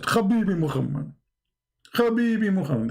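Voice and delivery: lightly voiced upset angel; a hint of reproach, throaty "kh" on Habibi; upset Jibreel. Upset Jibreel at Muhammad's door, mild mock reproach. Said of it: "Jibreel was so upset".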